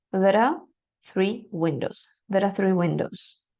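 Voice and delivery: "there are" linked into one sound; connected speech. Shown as a demonstration. Teacher modeling linked plural sentence. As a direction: blend "There are three windows" smoothly. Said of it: "de manera fluida".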